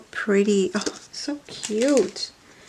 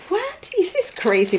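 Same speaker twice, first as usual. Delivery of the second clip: retold disbelief; 10 semitones higher than usual. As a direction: replay the shock at the cheap prices. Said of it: "And I was like".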